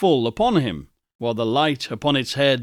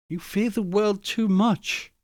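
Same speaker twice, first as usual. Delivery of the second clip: gently; 7 semitones higher than usual. Acted. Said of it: "she answered gently".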